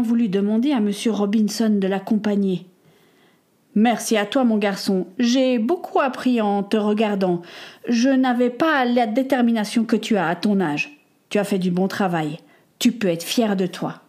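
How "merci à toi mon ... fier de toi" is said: a lightly voiced old craftsman, proud and tender; kind old carpenter. Robinson says goodbye.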